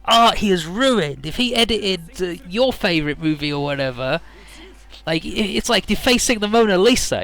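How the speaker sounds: high, indignant melodrama; overwrought ranting. Acted. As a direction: plead the outrage as if it were tragic. Ranting over his ruined DVD.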